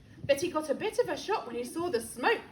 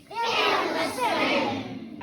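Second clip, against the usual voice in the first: drawn-out, stretched-out repeat; very slow echo; 5 semitones higher, 4 dB louder, much slower than usual. Acted. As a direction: drag every word out. Slowed echo of command.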